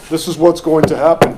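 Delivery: a lightly voiced superhero, bold and declaring. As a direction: announce it like a comic-book hero, half in jest. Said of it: "I do that with a superhero voice".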